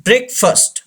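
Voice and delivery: "breakfast" said as BREK-fust; correct pronunciation. Shown as a demonstration. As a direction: say "breakfast" with a short schwa in -fast. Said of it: "The actual pronunciation of this word". ("breakfast" का सही उच्चारण, "ब्रेकफ़स्ट")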